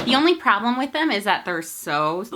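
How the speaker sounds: hiccup breaking the words. Real, not acted. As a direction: talk through hiccups. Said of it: "sorry, the hiccups".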